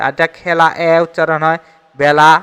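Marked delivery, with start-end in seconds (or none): 2.0-2.3 "বেলা" as bæla; open e pronunciation. Shown as a demonstration. Teacher gives an example of the shifted vowel, "বেলা" as bæla. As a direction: say "বেলা" with a wide æ. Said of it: "এ উচ্চারণ হচ্ছে".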